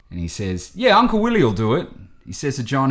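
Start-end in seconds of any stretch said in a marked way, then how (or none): 0.7-1.9 put-on high, quick comic old-timer reply; hammed-up eager yes from an uncle; Uncle Willie voice. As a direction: imitate him, pitched way up and fast. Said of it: "Eddie Murphy making a comeback here".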